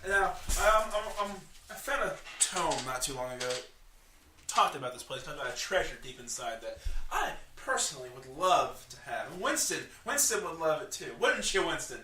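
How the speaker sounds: lightly voiced gnome, lilting and lively; a hint of an eccentric gnome, pitch swooping; coaxing gnome. Gnome hints at treasure he wants, lightly voiced coaxing.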